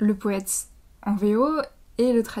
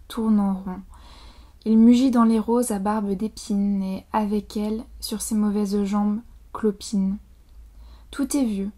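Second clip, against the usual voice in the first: louder, measured poetry recital; poem reading; 3 dB louder than usual. Acted. Reader reciting a favourite translated poem to an audience, declaimed poem reading. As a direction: project each line, pausing between images.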